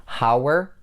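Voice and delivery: "How are" joined by a w glide, rising; linking w. Shown as a demonstration. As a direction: link "How" to a weak "are" with w. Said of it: "you have to put w".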